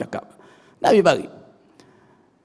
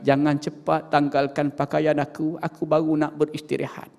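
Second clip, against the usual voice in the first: softer, weary dead man's plea; the dead pleading with the washers, softer and tired; moaning plea; 7 dB quieter than usual. Acted. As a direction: beg them to wait, exhausted. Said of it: "merintih kepada orang yang menanggal".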